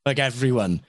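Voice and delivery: slow, drawn-out Welsh voice; Eddie Butler-esque Welsh. Acted. Actor mimicking the Welsh read auditions want, slow Welsh impression. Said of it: "like, an Eddie Butler-esque".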